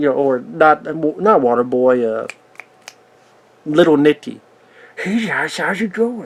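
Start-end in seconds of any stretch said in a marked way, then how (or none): 5.0-6.3 quiet, soft, goofy voice. Speaker acting out a greeting in a goofy Adam Sandler voice. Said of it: "the stupid, goofy voice".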